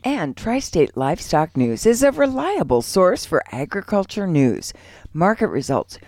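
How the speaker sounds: measured radio sponsor read with punched list items. Real, not acted. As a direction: pitch the paper to listeners. Reads a sponsor ad.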